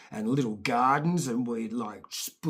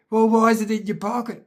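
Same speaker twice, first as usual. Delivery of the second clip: annoyed mum; 7 semitones higher, 7 dB louder, faster than usual. Retold or imitated. Mum interrogating the kid.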